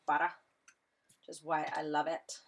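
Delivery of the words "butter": put-on butter in a light New York accent; attempted New York accent. Crafter playfully praising her trimming tool, attempted New York accent. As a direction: drop the R, New York style. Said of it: "trying to have a New York accent".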